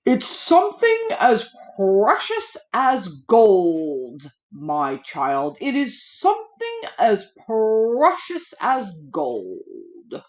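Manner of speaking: a hint of a giant's weighty tone. The giant-voiced man answering the boy, lightly booming. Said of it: "who had a voice like a giant".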